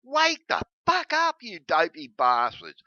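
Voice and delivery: way up high, yelling at the audience; angry shout. Real, not acted. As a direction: scream the wake-up call. Ranting at Christians to wake up.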